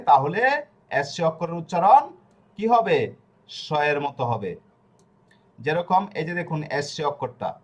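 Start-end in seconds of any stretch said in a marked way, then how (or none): 3.5-4.5 স said as a hushing "sh"; sh sound. Shown as a demonstration. Teacher answering what S becomes, স as "sh". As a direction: say স like "sh" in ship. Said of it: "মানে দুন্তাস স".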